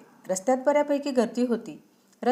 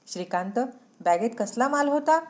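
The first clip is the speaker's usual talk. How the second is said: angry question; 3 semitones higher than usual. Acted. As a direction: confront him sharply at the door. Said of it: "तिने दारातच रागाने विचारले".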